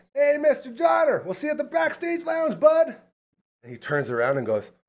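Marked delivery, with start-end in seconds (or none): 0.2-3.0 mock friendly yelled call, very high pitch. Retelling calling out to someone while walking out: imitating his own yell. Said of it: "and I yell".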